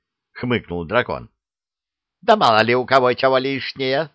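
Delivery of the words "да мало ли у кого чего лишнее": higher, louder retort; snapping back at the dragon; indignant counterattack. Acted. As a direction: fire it back on the attack. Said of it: "ринулась в атаку яга".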